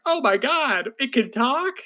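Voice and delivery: high, squeaky disbelief at a talking dragon; mock shock. Reacting to an anime dragon that talks, high surprise. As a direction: gasp it out like the dragon just spoke.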